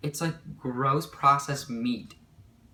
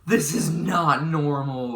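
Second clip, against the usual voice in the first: slow, louder, emphatic alarm; acted freak-out; 3 semitones higher, 6 dB louder, slower than usual. To herself as her voice changes, acted freak-out. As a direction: retell a freak-out, louder and drawn out. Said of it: "I was literally freaking out".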